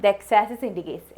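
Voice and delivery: very slow, careful English; model answer, slowly. Shown as a demonstration. Teacher demonstrates the third sentence of the answer, very slow. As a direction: dictate the sample sentence clearly. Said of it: "third ആയിട്ട് എന്താ പറയുക".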